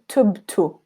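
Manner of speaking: "tubtu" with the last dhamma close to u; final dhamma. Shown as a demonstration. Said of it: "hear how that dhamma sounds".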